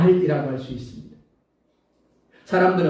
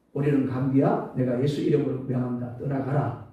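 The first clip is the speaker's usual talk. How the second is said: commanding rebuke; 6 semitones lower, 4 dB quieter than usual. Acted. Rebuking a cold in Jesus' name.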